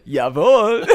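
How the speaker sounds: put-on comic German accent; gay German accent. Answering friends who tease his German, camp German accent. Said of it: "He can't do a straight German accent".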